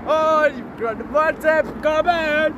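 high, slow mimicking tone; mocking imitation. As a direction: parrot your friend teasingly. Mimicking friend's announcement.

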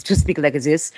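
a light playful cat voice. Shown as a demonstration. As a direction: speak as a pet cat would. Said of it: "speak in her cat voice".

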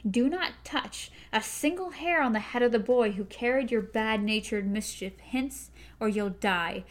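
a gunslinger's grim threat; stern gunslinger warning. Acted. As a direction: warn her coldly, every word weighed. Roland threatens the witch.

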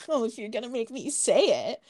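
smug imitation of a man's put-upon confession; mock cocky. Host imitating Colin being a douche, mock cocky. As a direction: toss it out as if forced. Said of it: "he's being a little fucking douche".

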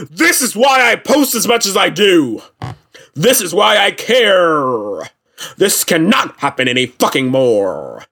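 mock-impassioned post reading; drawn-out outraged declaiming; dramatic angry reading. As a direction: read it like an overblown protest speech. Reads out singer's angry post.

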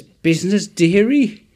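high, loud cackling crone voice with a laugh; old crone. Retold or imitated. Crone calling to a passing young man, high and cackling. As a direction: croak it like a creepy old street crone. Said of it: "this wizened crone looms out".

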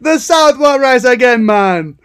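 loud mock Southern US; hammed-up Southern man; joking cohost, loud Southern accent.

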